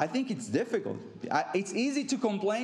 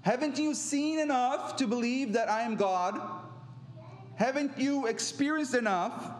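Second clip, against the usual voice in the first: exhorting; 5 semitones higher than usual. Acted. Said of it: "Jesus exhorts them".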